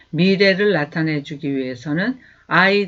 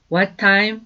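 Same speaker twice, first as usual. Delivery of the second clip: slow, clear teacher's model, each word apart; slow demo pronunciation; slow model sentence; much slower than usual. Shown as a demonstration. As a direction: say it slowly for students to repeat. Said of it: "하시면 돼요".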